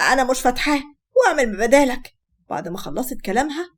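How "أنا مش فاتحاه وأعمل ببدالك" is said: mild mock yell; defiant refusal with only a touch of shouting; yelling and screaming. Wife refusing to unlock phone for husband, mildly acted yell. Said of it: "غدا بزعيق وصويت".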